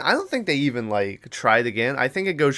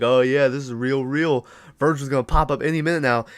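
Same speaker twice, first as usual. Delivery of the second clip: sarcastic heckling; 3 semitones higher than usual. Retold or imitated. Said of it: "to heckle him".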